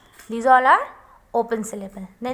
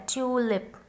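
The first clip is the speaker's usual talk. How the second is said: tulip with a long TU, softly; stress on first syllable; 6 dB quieter than usual. Shown as a demonstration. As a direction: lean on the tu of tulip. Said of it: "because stress is here".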